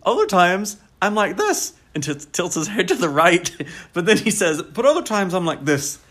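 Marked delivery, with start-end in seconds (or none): 0.0-1.7 high, louder hammed-up West Country yokel; imitated West Country country guy; West Country bumpkin. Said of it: "So he's kinda talking like this". 4.6-6.0 high, louder hammed-up West Country yokel; imitated West Country country guy; West Country bumpkin. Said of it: "So he's kinda talking like this".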